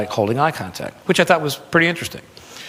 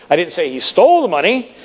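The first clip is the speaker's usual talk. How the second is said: stole raised with a rising lift; stress on STOLE; 5 semitones higher than usual. Shown as a demonstration. Speaker shows how stress shifts meaning, stressing stole. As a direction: hit stole hard. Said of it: "same words with different inflections".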